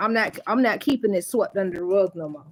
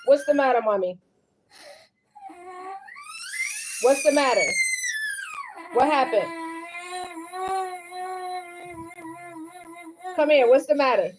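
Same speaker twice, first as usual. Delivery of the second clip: higher-pitched concerned coaxing; concerned parent; 9 semitones higher than usual. Real, not acted. Mother to her crying child, concerned and higher.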